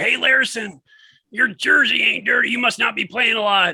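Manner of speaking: put-on shrill, high, loud jeering yell. Retelling a fan in the stands heckling a player: imitating a fan yelling. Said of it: "some dude up in the stands is yelling at him".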